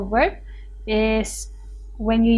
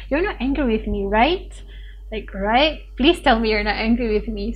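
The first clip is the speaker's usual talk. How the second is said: pleading for reassurance. Shown as a demonstration. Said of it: "seeking confirmation from someone".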